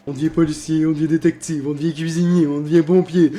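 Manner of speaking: building from lively to loud; mock-excited reading. Real, not acted. Reads ChatGPT list, building excitement.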